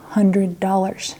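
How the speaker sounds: slow whisper on the price; hushed price. Real, not acted. Vlogger whispering the steep warranty price to viewers. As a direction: breathe out the shocking sum slowly.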